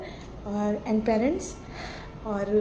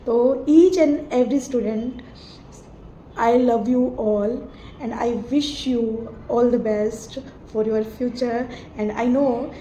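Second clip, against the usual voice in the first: slow, sincere goodbye, words drawn out; heartfelt farewell; much slower than usual. Real, not acted. Teacher bidding her class goodbye, slow and sincere. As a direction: let each word of love land slowly.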